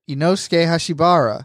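"Inosuke Hashibara" with the u dropped, ee-no-skay; contrasting pronunciation. Shown as a demonstration. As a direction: say "Inosuke" as three syllables, "Hashibara" ending bar-a.

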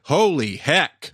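high, slow exclamation of shock; surprised. Real, not acted. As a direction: stretch it out in disbelief. Learns the scene is still running.

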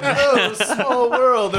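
high, loud, drawn-out laughing imitation; mocking quote. Teasing a friend's small talk that ended the conversation, mocking. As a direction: stretch it slowly, laughing at the lameness.

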